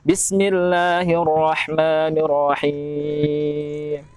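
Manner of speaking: Bismillahirrahmanirrahim with the final mim dropped; common mistake. Shown as a demonstration. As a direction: clip the end of Bismillahirrahmanirrahim so the mim vanishes. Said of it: "Hilang itu karakter huruf mim". (contoh salah, mim hilang)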